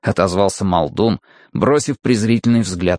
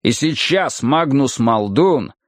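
rumbling brute; 4 semitones higher, slower than usual. Acted. Muldoon's speech.

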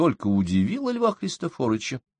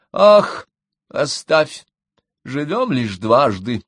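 airy, much higher Ах then slow; dismissive; 4 semitones higher, 6 dB louder, much slower than usual. Acted. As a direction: brush off the son's worry. Mother waving off son's warning.

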